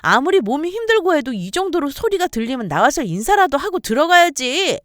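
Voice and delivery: loud, high, scolding sister-in-law; angry scolding. Acted. Sister-in-law scolds the sick wife. (높고 큰 소리로 꾸짖듯이)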